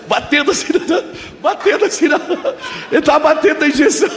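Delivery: high, breaking into laughter; laughing while telling. Real, not acted. Preacher recounting the doctor tapping the injection, laughing. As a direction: crack up through the words.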